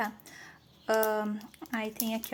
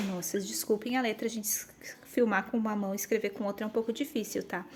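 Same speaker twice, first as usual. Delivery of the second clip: whispered aside; 2 semitones lower, 5 dB quieter, faster than usual. Real, not acted. Aside apologizing while filming.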